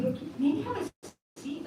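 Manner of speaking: soft, slow and kind; gentle suggestion. Retold or imitated. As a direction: ease him into sitting down. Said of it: "I told him, I said".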